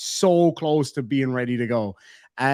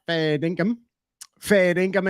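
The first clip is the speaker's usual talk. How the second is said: put-on Australian accent; 3 semitones higher than usual.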